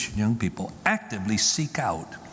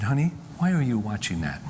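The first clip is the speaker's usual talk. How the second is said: casual, gentle; 3 semitones lower than usual. Retold or imitated. Mother gently asking her son about the video, casually. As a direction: ask without any accusation. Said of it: "just casually".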